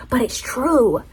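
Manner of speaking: a breathy whispered aside. Real, not acted. Confiding her favourite truth to viewers, whispered. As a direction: lean in and whisper it like a secret.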